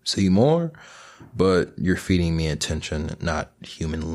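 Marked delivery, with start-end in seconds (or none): 0.0-0.7 higher, a hint of a demanding plant monster; lightly voiced Audrey II; Audrey II impression. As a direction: growl it like a hungry plant. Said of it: "Audrey two from Little Shop".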